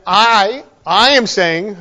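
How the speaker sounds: "I" said alone, then repeated firmly; emphatic stress on I. Shown as a demonstration. Preacher showing the force of Jesus's words, emphatic on "I". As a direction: lean on "I" and pause after it. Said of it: "put as, it's very emphatic".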